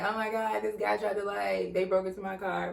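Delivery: soft, mock-tearful retelling; retold crying. Woman telling boyfriend her car was broken into, mock crying. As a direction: lightly imitate a tearful victim. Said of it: "So I was crying".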